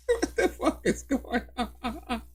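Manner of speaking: can't believe it, laugh it out; What the fuck is going on said slowly through laughter; laughing disbelief. Real, not acted. Repeats it, breaking into laughter.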